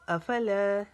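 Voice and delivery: अफला with ला drawn out; long ला. Shown as a demonstration. Teacher showing alif madd, अफला ending long. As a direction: stretch the final aa of अफला. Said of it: "ला को लंबा करेंगे".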